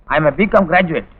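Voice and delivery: slow, tearful words. Acted. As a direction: choke it out slowly. Crying groom in the queue. (அழுகையுடன் மெதுவாக)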